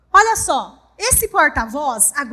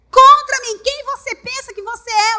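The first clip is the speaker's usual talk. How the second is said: enemy's taunt; 6 semitones higher, 8 dB louder than usual. Acted. Enemy taunt, marked as enemy speaking.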